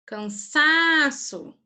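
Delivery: cansaço slow, leaning on the sa syllable; teacher sounding out the stressed syllable. Shown as a demonstration. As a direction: make the class hear the stressed sa in cansaço. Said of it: "É o sa".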